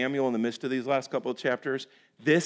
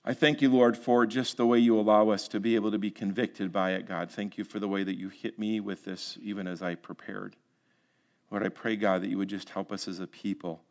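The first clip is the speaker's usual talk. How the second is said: closing prayer; 2 semitones lower than usual. Real, not acted. Preacher praying to God for the congregation, earnest prayer. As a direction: pray aloud, easing down to a hushed amen.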